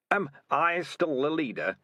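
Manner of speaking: put-on high, slow, frail old rat voice; a dying old leader, fading; weak old rat.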